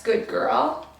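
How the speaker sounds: bright rising praise. Shown as a demonstration. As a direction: reward the puppy with a lifted "good girl". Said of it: "They know they're being praised".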